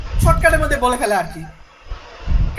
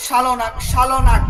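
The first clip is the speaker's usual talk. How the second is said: slow model phrase; 4 dB louder, much slower than usual. Shown as a demonstration. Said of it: "কাতার যারা আছেন তারা, আহ, বলে থাকে".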